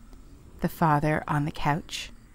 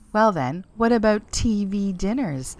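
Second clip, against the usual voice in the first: victorious; 4 semitones higher, 3 dB louder than usual. A narrator's reading. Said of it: "said Bertie victoriously".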